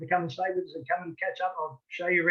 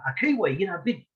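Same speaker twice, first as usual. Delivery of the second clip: a louder, mock-knowing voice that guesses Kiwi; amused stranger's louder guess; 3 dB louder than usual. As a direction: lightly play the confident stranger. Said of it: "A few people have even said".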